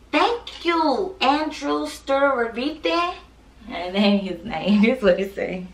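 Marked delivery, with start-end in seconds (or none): 0.1-3.1 mock formal. Struggling with a name.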